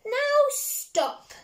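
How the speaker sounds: high sharp order; commanding Max. Acted. Max ordering the wild things to stop, high and sharp. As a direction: stop them with one word. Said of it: "Max said".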